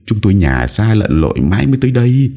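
high, urgent plea for help; a touch of desperate begging; earnest pleading. Acted. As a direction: implore her to save the child. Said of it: "khẩn khoản cầu cứu".

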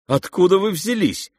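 high-pitched startled exclamation; astonished cry. A narrator's reading. The prince meets an unexpected figure, crying out astonished. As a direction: cry out in sudden surprise. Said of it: "вскричал князь".

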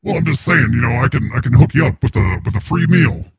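voice changer voice. Acted. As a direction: voice run through a changer. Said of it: "It's just a voice changer".

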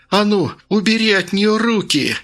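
high furious yell; shrill yell. Acted. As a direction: scream it at her. Woman screams at Vasilisa.

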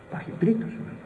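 hushed whisper of wonder; awed whisper. Acted. Preacher quotes Paul on the third heaven, whispered. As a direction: breathe it out in awe.

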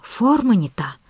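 a touch of frantic frustration; frustrated muttering. Acted. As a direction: grumble it in disbelief. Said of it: "бормотал профессор".

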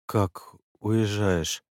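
медленно, растерянно, упавшим голосом; растерянный лепет, очень медленно. Acted. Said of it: "упавшим голосом пролепетал". (упавшим голосом, медленно)

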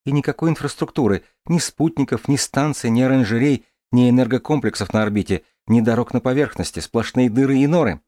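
put-on light, lively girl's voice; young woman voice. Дарья говорит. (голос девушки)

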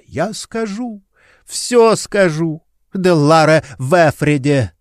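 high, drawn-out desperate scream. A narrator's reading. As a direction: break down and scream it out under torture. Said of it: "Наконец она закричала".

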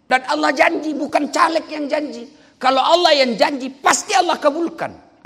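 high, loud crowd-rousing shout; full-force preaching. Real, not acted. Preacher boasts to the crowd of his free trips, full-force preaching. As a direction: fire out short phrases with pauses, loud and high.

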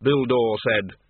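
ordinary delivery

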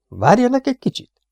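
very high, hurried call; urgent. A narrator's reading. Inspector breaking off, urgent and high. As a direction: stop them and run.

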